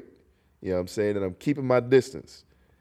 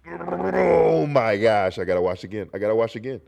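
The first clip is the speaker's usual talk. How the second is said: mock disgust; 4 dB louder than usual. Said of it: "And I'm just like".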